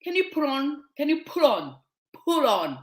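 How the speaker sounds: "pull on" for put on, the t lost; American-style slurring. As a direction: mimic Americans running "pull on" together. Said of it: "Americans say".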